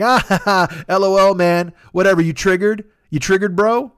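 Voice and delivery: high, loud sneering bro voice, mock laugh up front; mocking troll. Art thief mocking the artist's complaint, high sneering bro voice. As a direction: taunt the artist like a smug internet troll.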